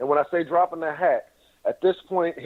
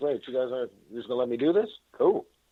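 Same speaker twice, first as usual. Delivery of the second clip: breezy, nonchalant, cool, offhand delivery; 3 semitones lower, 4 dB quieter than usual. Imitating Don Cheadle sliding in on a deal: nonchalant Don Cheadle impression. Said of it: "he just sort of slides in, is like".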